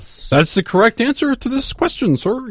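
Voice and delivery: put-on high, careful standard-speaking kid; prim schoolboy voice. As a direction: play the overly proper student. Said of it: "I was like".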